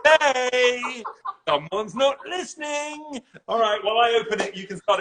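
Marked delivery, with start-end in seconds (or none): 0.0-3.2 laughing. Real, not acted. Laughing at the wrong wine.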